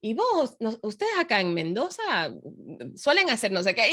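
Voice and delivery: put-on light Argentine Spanish accent. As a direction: slip into a little Argentine lilt. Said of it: "I put my little Argentine".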